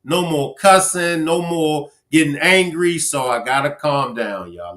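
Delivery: coaching herself to calm down, voice dropping away; self-calming talk. Retold or imitated. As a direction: ease off, calm yourself down to a near mutter.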